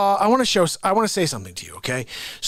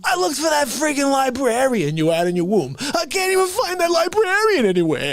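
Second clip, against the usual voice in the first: mock indignation; 3 semitones higher than usual. Acted quarrel with his mother.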